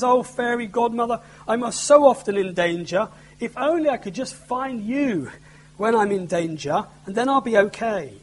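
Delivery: lightly voiced young princess, pleading; a hint of a scared little girl. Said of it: "And the princess says".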